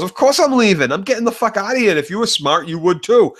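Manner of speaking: high, fast, lightly voiced old dowager; mock old lady. Retelling Olenna scoffing at Cersei, high fast mock voice. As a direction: toss it off like a fed-up grand dame. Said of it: "She goes".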